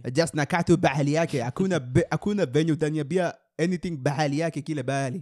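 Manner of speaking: imitated Somali accent. Co-host hit with the Somali accent after a film, imitating it. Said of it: "I was hit with the Somali accent".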